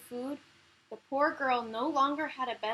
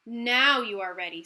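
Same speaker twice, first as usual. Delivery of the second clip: godmother pleased; 8 dB louder than usual. Acted. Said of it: "said the fairy godmother".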